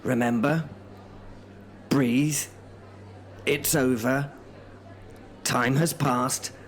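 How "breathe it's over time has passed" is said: calming. Acted. Host soothing Albert out of a wartime flashback. Host calms a shell-shocked man.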